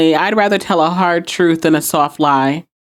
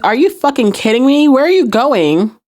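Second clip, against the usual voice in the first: mildly incredulous, pitched-up questions; higher-pitched mock astonishment; retold disbelief; 5 semitones higher than usual. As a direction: act out stunned disbelief, without shouting. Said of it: "looking at her wide-eyed".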